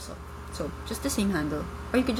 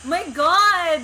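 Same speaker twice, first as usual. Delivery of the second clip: embarrassed outcry; 11 semitones higher, 10 dB louder than usual. Real, not acted. Cringing at her own video.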